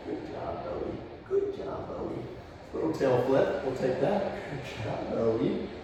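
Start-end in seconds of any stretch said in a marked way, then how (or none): 0.1-2.2 hushed breathy praise for the dog; whispered praise. Real, not acted. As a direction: whisper the praise so as not to break focus.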